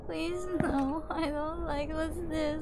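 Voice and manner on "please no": ordinary talk, nothing marked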